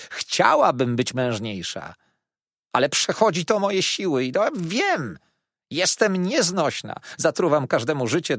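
wdowa rozżalona, coraz głośniej się skarży; żałosny lament. Acted. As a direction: narzeka płaczliwie, wyżej i głośniej. Wdowa lamentuje nad swą dolą. (wdowa Gamage skarży się gospodarzowi, żałośnie i głośno)

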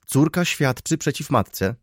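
high, slow, emphatic exclamation; outraged cry. A narrator's reading. Baroness points out the child's testimony, crying out. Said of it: "krzyknęła baronowa".

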